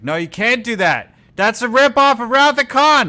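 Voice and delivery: high, loud protesting Scotty voice; mock Scotty. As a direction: squeal it like an outraged engineer. Scotty voiced in a retold story.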